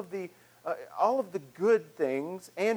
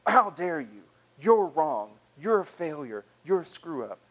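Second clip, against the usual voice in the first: mock accusation in short separate blows; condemning; 3 dB louder than usual. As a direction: lightly act out a condemning inner voice. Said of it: "if it is condemning, saying".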